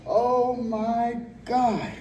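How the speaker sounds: drawn-out strained cry; long pained groan from burning legs; hit hard crying out. Real, not acted. Legs burning at end of set.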